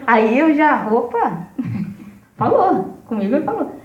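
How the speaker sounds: laughing. Retold or imitated. Teller laughs while quoting herself.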